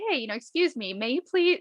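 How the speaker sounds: lightly acted polite asking, pitch lifting on the plea; a touch of sweet-mannered politeness; nicer, polite request. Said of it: "you know, I would be nicer".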